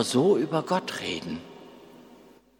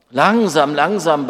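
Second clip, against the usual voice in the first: urgent plea; 2 semitones higher, 5 dB louder than usual. Acted. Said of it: "bat Lukas".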